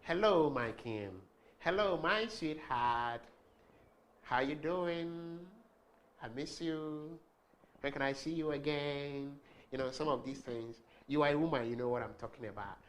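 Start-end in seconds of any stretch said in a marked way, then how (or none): 0.0-9.4 slow, lilting loving hello; slow sing-song sweetheart greeting; modulated sweet voice. Shown as a demonstration. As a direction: draw it out sweetly for your man. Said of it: "try and bring out some voice modulations".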